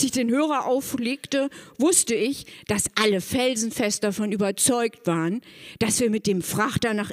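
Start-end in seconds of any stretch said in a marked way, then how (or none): none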